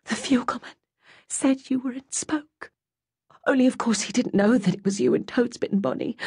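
high, hushed-then-rising mother's voice; confiding bad news close to her ear; worried mother. A narrator's reading. Ma tells Goldie news.

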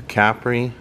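Capri as CAP-ree, stress on the first syllable; Capri starting on a stressed "cap"; Italian pronunciation. Shown as a demonstration. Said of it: "people in Italy pronounce it Capri".

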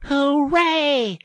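high, loud, long cheer; jubilant cry. A narrator's reading. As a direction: burst out cheering at a find. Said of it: "Suddenly the rat cried".

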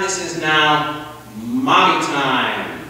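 slow, contented, lightly voiced mother; savoring mommy time. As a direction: stretch out the words with satisfaction. Mother savoring her quiet time.

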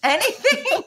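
very high pleading cry; desperate cry. Retold or imitated. Rider begging the cop for help, high desperate cry. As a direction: beg at the top of the voice. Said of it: "I'm like".

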